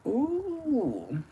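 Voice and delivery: high drawn-out ooh; delighted ooh. Real, not acted. To viewers, seeing the neon pink, a high drawn ooh. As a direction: coo at the color.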